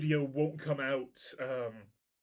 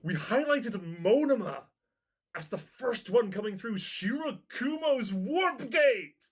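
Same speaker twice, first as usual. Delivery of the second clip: high, loud jubilant shout; crowing with delight; triumphant excitement; 9 semitones higher, 5 dB louder, slower than usual. Real, not acted. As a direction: build to an exultant yell on the last word. Fan celebrating a predicted reveal.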